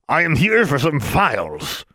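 high, slow, put-on official voice; posing as a man. A narrator's reading. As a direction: state your business in a stiff put-on voice. Alexandra posing as Mister Brown.

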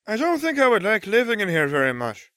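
put-on very high, airy-light girl's character voice at normal volume; Luna calling out. A narrator's reading. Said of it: "Luna called from my trunk".

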